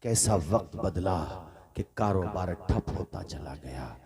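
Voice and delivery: hushed storytelling. Acted. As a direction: drop to a low, soft storytelling voice. (धीमी, दर्द भरी कथा-वाचन की आवाज़)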